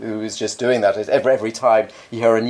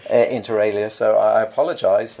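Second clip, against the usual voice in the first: muffled. Real, not acted. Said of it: "I'm a bit muffled".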